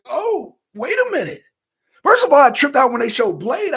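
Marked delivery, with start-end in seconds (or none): 0.0-1.4 higher mock double take; acting out a sudden realization; retold realization. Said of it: "I was like".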